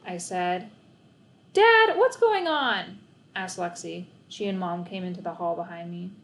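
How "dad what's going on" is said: surprised question. A narrator's reading. Lexi surprised by Dad's dog.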